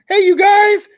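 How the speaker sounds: puppet-voiced holler to the crowd; high, loud frog-puppet hail; calling out. Puppet host hailing friends in the chat, hollering.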